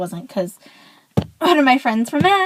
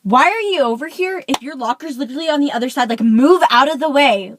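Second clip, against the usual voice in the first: exasperated, louder at the end on move; annoyed retelling; 2 semitones higher, 3 dB louder than usual. Retold or imitated. Retelling how she told the boy to move, annoyed. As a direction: reenact snapping at the locker blocker. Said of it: "Like, that's how I was".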